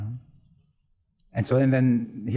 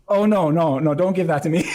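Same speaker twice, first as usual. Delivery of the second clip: louder, higher, laughing protest; laughing retelling; 8 semitones higher, 8 dB louder than usual. Retold or imitated. Priest retelling dying sister refusing dad's request, laughing. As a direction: laugh through her playful refusal.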